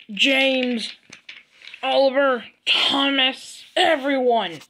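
mildly hammed-up anger, stressing each grievance; mad rant. Villain fed up with everyone, acted mad rant. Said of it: "he's extra mad today".

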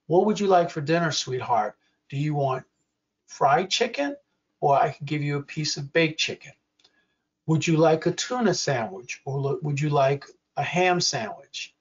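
measured caregiver demo, pausing between choices; patient demonstration, clearly spoken; slow and clear. Shown as a demonstration. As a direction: offer each choice clearly, with pauses. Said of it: "that I'm speaking slowly, that I'm speaking clearly".

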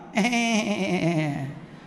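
long wavering bleat, trailing downward; imitated baby noise. Soothed baby looking at carer, imitated quavering sound. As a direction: mimic a calmed baby's quavering noise. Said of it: "cái làm".

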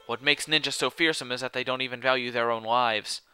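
measured, level explanatory reading; lightly voiced solemn expert; grave know-it-all character. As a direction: explain it soberly, with little pitch movement. Voices game dialogue.

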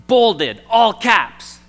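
loud, high, punched-out words; all-caps emphasis. Shown as a demonstration. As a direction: say it as if typed in capitals. Acting out an all-caps email.

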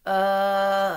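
loud, drawn-out hesitant filler; stall, lost for words; stammering. A narrator's reading. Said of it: "Mister Bing stammered".

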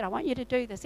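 softly spoken, gentle retold instruction; quiet, gentle urging; gentle prompt. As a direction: nudge kindly, keeping it quiet. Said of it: "he just gently said".

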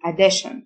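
addition with the ending said "shn"; tion as "shn". Shown as a demonstration. Teacher showing learners how tion sounds, "shn" ending in addition. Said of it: "آي أو إن تنطق شن".

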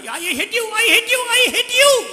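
high and loud, a shouted echo rising; the forest's echo shouting back. Acted. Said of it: "जंगल वापस गूंजा और आवाज लौट कर आई".

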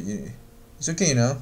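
"you know" with only the Y left of "you"; reduced you know. Shown as a demonstration. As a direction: slur "okay, you know" into "okay y'know". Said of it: "只把这个Y的这个音呢出来".

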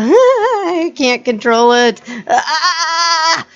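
laughing helplessly at the controls. Real, not acted. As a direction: giggle through it, losing control.

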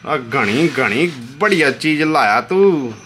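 Haryanvi style praise. Retold or imitated. Showing viewers how Haryana praises, mock Haryanvi cheer. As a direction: call out to the old uncle like a Haryanvi villager. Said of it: "Haryana में बोल देते हैं".

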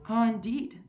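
concerned, caring inquiry; lightly voiced, solicitous host. A narrator's reading. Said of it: "the general inquired solicitously".

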